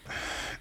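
soft, mock-exasperated sigh; annoyed sigh. Imitating Hina fed up with Hitomi, annoyed sigh. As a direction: let out a quiet put-upon breath. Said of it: "Hina just looks really annoyed".

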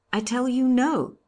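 high, loud contradiction; insistent denial. A narrator's reading. Brother argues with the judge.

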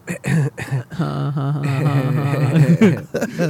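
forced laugh on request; fake laugh. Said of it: "just give a fake-ass laugh".

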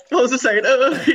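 high mocking echo; mocking imitation. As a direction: parrot him in a squeaky voice.

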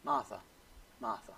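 soft, tender calling of her name; compassionate. Shown as a demonstration. The Lord gently calling Martha, soft and tender. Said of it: "saying her name with compassion".

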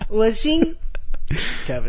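Uashin high and loud like the app; imitating app voice. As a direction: mimic the app's Uashin. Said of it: "like the app says it".

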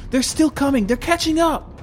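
high-pitched urgent warning; alarmed calling. A narrator's reading. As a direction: call out in panic to those ahead. Shouted warning during a chase.

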